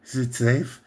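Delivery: low imitated European accent. Mimicking the trailer line to camera, low European accent. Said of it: "With the same sort of European accent".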